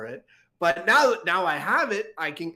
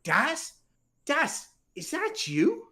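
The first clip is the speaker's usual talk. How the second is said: 1 surprised recognition; 10 semitones higher, slower than usual. Acted. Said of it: "I'm like".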